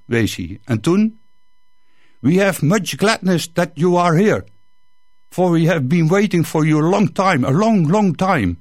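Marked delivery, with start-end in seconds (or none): 2.2-8.6 grateful priest. Acted. Priest welcoming liberators.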